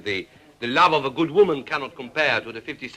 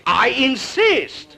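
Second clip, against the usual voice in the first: insistent; 9 semitones higher, 4 dB louder, much slower than usual. Acted. Host pressing wine.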